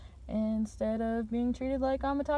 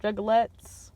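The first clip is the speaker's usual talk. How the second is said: loud, much higher whooping call, slower on my juggalos; fan shout-out; 5 semitones higher, 9 dB louder, slower than usual. Acted. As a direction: hype up the crowd with a big whoop. Calling out to his fans.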